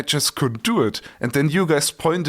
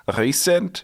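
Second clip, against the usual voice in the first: Scottish accent; 5 semitones higher than usual. Shown as a demonstration. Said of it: "if you say it in Scottish accent".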